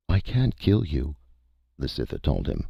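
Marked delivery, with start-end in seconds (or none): 0.1-1.2 alien creature voice. A narrator's reading. Cytha speaks.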